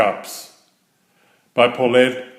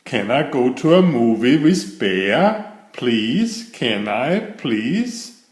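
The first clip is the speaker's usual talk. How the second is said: begging. Acted. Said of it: "begged Franklin".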